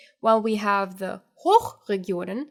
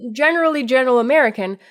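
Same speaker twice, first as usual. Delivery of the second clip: general American; 6 dB louder, faster than usual. Shown as a demonstration. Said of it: "I sound different if I just speak".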